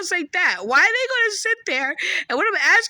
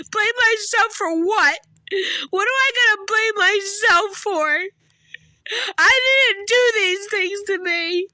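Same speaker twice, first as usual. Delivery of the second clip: upset; slower than usual. Real, not acted. Indignant outburst, louder, crying.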